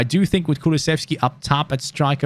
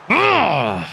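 frustrated groan; 5 semitones higher than usual. Real, not acted. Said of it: "I'm so angry".

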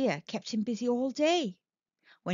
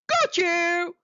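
higher, louder snap; snapped; 7 semitones higher, 5 dB louder than usual. Acted. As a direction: pounce on the word got. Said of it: "he snapped".

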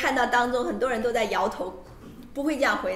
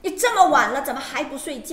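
loud scolding parent; scolding mother; 3 semitones higher, 5 dB louder than usual. Retold or imitated. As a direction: tell the kid off loudly. Interpreter voices scolding mother.

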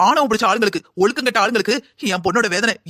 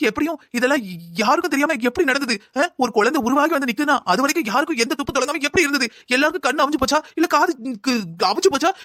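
angry outburst; 4 semitones higher than usual. Acted. Mother rants at family's blindness.

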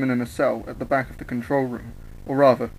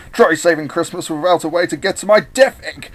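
loud, pitched-up villain taunt; jeering challenge in a raised voice; mocking; 4 semitones higher, 5 dB louder than usual. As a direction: taunt your adversary loudly. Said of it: "with Eggman mocking his adversary".

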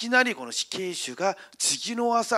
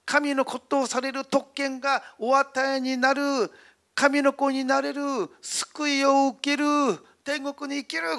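calling out loud; 4 semitones higher than usual. Retold or imitated. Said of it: "大きな声でこう言ったそうです".

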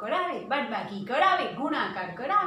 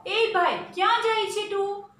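guard calling out; 9 semitones higher than usual. Acted. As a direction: halt him from across the gate. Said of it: "ચોકીદાર બોલ્યો". (ચોકીદારની બૂમ)

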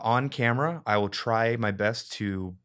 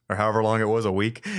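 laughing; 5 dB louder, faster than usual. Real, not acted. Laughing while asking the question.

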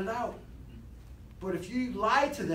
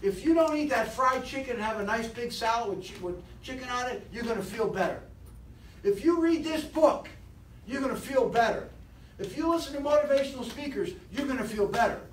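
encouraging inner voice; 3 semitones higher than usual. Acted. Speaker voicing the positive inner voice to the seminar, lightly upbeat. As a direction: cheer yourself on like a hopeful inner voice. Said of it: "See, this one says".

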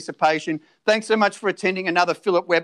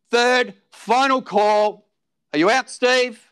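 auctioneer calling. Acted.

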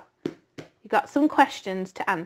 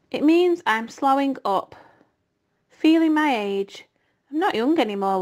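lightly voiced Charlotte; 2 semitones higher than usual. Charlotte tells Wilbur she's slowing up, lightly voiced. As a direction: gently voice the ageing spider.

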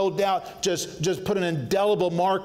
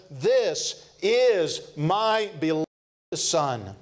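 voice of God; much slower than usual. Retold or imitated. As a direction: stretch it out like a heavenly decree. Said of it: "he says".

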